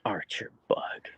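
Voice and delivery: whispered name, slow; whispered call. Real, not acted. Calling her husky Archer in a slow whisper. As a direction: softly whisper the dog's name.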